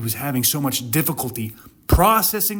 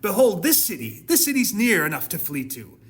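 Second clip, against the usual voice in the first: desperate pleading Lot; 4 semitones higher than usual. Acted. Lot begging the angels to let him flee to the little city, rising panicky plea. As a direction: voice climbing higher and higher in panic. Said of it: "And Lot said to them".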